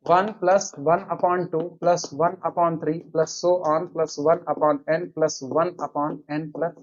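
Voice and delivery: very slow, word-by-word dictation. Acted. Teacher dictates the inequality for students to copy, very slowly. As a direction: spell it out slowly so the class can write.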